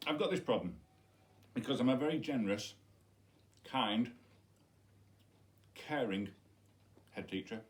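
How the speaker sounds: muffled words round a bite; mouth full. Real, not acted. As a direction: still chewing as he talks. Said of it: "who's talking with his mouth full".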